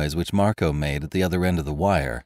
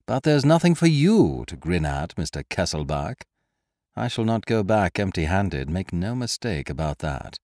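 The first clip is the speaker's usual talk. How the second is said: lightly raised, mocking gentleman thief; Lupin's voice. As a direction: needle the prisoner with sly amusement. Lupin taunting his prisoner.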